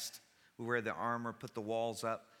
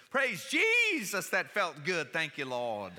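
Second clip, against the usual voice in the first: mock pain yell; 6 semitones higher, 7 dB louder, slower than usual. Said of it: "I just yelled as loud as I could".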